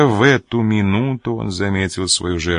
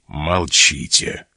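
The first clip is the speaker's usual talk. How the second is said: sharp command; 4 semitones lower, much slower than usual. A narrator's reading. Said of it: "резко сказал Манбар".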